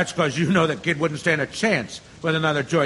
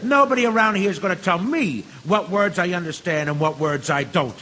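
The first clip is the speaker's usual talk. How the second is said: heated, rising threat; bully him down with rising anger; angry threat. Acted. Bigoted juror threatening the immigrant juror, angry.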